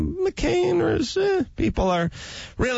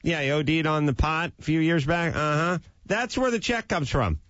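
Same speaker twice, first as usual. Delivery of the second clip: acted dialogue; 6 semitones higher than usual. Acted phone call dialogue.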